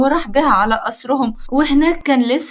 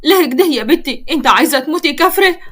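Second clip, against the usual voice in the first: sad scolding; 3 semitones higher, 4 dB louder than usual. Acted. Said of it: "تقول لها بحزن".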